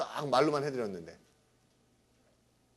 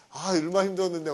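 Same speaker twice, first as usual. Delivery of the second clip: louder, higher student whine of annoyance; retold irritation; 4 semitones higher, 5 dB louder than usual. Student grumbling to the teacher after studying hard, mock irritation. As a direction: imitate a student's peeved complaint. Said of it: "막 그러면서 짜증내더라고요".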